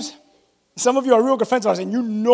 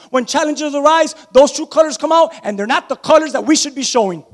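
emphatic, higher sermon voice; raised-pitch pulpit exhortation; preaching; 6 semitones higher, 3 dB louder than usual. Real, not acted. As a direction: drive the point home to a congregation. Preaches to the church.

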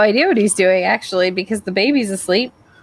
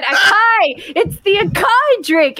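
insistent mock Jimmy; 12 semitones higher, much slower than usual. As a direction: hammer the word like he won't give up. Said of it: "he keeps, he keeps going".

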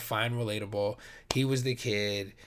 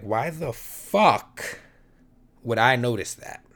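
mock indignation; 6 dB louder, slower than usual. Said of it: "really pissed me off because I'm like".

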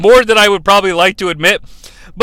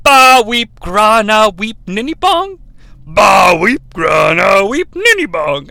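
slow, odd chanted alien voice; alien greeting; slower than usual. Retold or imitated. Alien delivers the universal greeting, slow and chanted. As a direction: chant it like a strange creature's hello. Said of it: "the universal greeting".

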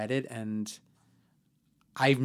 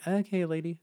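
dismissive; 8 semitones higher than usual. Retold or imitated. Retold dismissive reply to boss.

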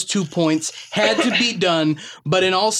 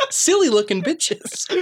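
laughing. Real, not acted. Breaking up while reading review.

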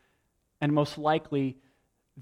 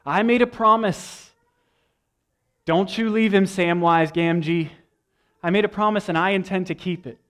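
higher, louder heartfelt promise; hammed-up Sam vow; earnest Sam; 4 semitones higher, 4 dB louder than usual. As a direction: swear it like a loyal friend. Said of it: "Sam says to Frodo".

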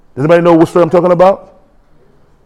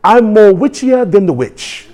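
put-on slow, higher-pitched Nigerian accent; Bishop David, Nigerian accent; 4 semitones higher, slower than usual. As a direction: imitate a Nigerian preacher, drawing it out. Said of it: "Bishop David in Nigeria said".

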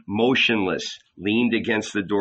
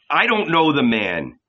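higher cursing denial; shouting; 5 semitones higher, 3 dB louder than usual. A narrator's reading. Peter cursing at the Levites, higher angry denial. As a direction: spit out the denial. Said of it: "he shouted".

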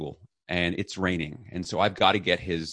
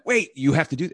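stern father; 8 semitones higher, 5 dB louder than usual. Retold or imitated. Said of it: "this demon in her life who went".

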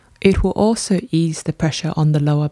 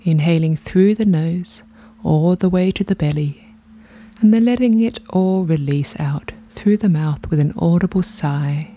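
guided meditation. Real, not acted. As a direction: lead them gently through each breath, unhurried.

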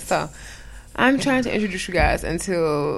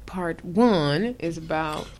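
slow drawn-out voice; much slower than usual. Acted. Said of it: "Why are you talking like that?".

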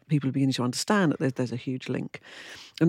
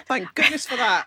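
laughing; 7 semitones higher, slower than usual. Real, not acted. Both laugh at wine joke.

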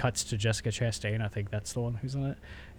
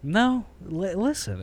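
higher put-on voice, urging them to listen; pleading juror; 8 semitones higher, 3 dB louder, much slower than usual. Lone juror pleads with the other jurors, raised voice.

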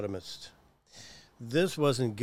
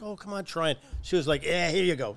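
higher, pushy nurse voice; mock brusque nurse; 5 semitones higher than usual. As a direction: rush the patient like a brusque nurse.

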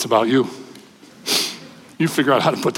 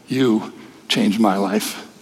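tender, slow; 4 semitones lower, much slower than usual. Retold or imitated. Telling the grown-up girl she changed his life, slow and tender. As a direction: lower and slower, heartfelt.

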